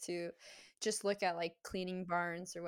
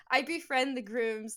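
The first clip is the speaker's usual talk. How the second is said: laughing; 4 semitones higher, 4 dB louder than usual. Real, not acted. Laughing over shared groom friendships.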